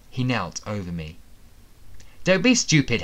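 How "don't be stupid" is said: angry. Acted. Attacker threatens hero.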